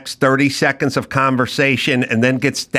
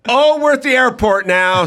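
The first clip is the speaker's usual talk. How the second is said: mock wrap-up voice; 7 semitones higher than usual. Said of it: "or like".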